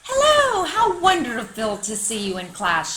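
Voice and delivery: high, chirpy little bird greeting; chirping bird. A narrator's reading. Yellow bird greeting the dog at class, chirpy. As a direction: sing out the hello like a bird. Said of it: "she chirped".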